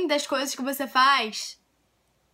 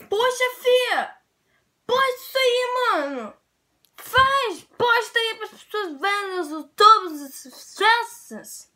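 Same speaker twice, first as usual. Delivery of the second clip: higher, slow coaxing plea; imitating pushy friends; 8 semitones higher, 3 dB louder, slower than usual. Friends urging her to post, mock voice higher. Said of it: "As pessoas falavam".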